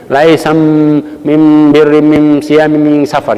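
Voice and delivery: Bani Tamim dialect with long humming "mim". Shown as a demonstration. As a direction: drawl "Laisam mim birri mim siyami mim safar" in Bani Tamim dialect, nasal m's held. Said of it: "Tapi Nabi waktu ngucapinnya begitu". (logat Bani Tamim, bunyi mim didengungkan panjang)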